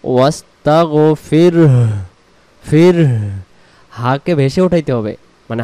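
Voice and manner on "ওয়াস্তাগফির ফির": ওয়াস্তাগফির ending with a clear ফির; correct stop. Shown as a demonstration. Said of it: "বলতে হবে".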